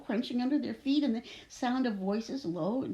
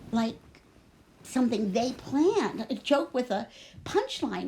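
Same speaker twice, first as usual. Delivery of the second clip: expressive first-person storytelling, measured phrases; story narration. A narrator's reading. Girl stuck in a well tells her story, expressive narration. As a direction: read it as an uneasy girl's account. Reads a novel aloud after chat.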